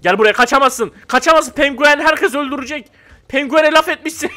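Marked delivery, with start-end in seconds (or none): 0.0-1.5 louder chasing taunts; mock threatening calls. Chasing a fleeing player in game, loud taunting calls. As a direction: bark at him as you chase.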